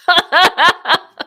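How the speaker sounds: high burst of nervous laughter; loud nervous laugh. Real, not acted. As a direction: laugh in panicked disbelief. Election results tightening, the speaker laughs.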